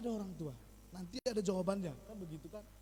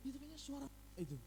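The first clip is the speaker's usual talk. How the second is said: put-on unsure child; 6 dB quieter than usual. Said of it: "didengar anaknya".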